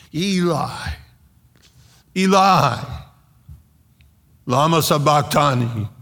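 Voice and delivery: high, loud cry with long pauses; imitated scream. Preacher voicing Jesus screaming out of the darkness, high loud imitated cry. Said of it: "and he's screaming".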